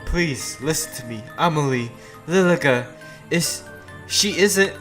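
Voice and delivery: high, soft plea in character; anxious pleading. Acted. Sophia begging entranced Amelie to listen, anxious and soft. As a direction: plead softly and falter.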